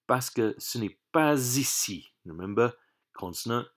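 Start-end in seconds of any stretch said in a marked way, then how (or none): 1.1-2.1 "pas ici" rolled together, s sounded as z; liaison. Shown as a demonstration. Teacher showing how consonant meets vowel, "pas ici" run together in liaison. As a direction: link "pas ici" as one word, pa-zee-see. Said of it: "therefore it rolls together".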